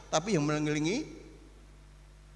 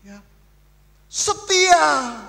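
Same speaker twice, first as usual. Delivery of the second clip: gossiping townsfolk; 9 semitones higher, 5 dB louder, slower than usual. Retold or imitated. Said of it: "orang bercerita".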